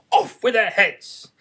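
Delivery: loud, slow death sentence; Queen orders the beheading loudly; sentencing. A narrator's reading. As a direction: pronounce it with finality.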